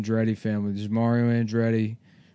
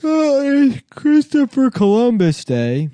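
announcer voice; 13 semitones higher, 6 dB louder, slower than usual. Acted. Podcast bit, intro in put-on voice.

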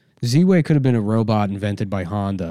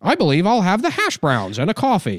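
high, squeaky-clean white-guy voice; hammed-up, high and proper white-guy impression; overly white talk; 8 semitones higher, 3 dB louder than usual. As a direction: overdo talking white, pitched way up and stilted. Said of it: "relearn how to talk white".

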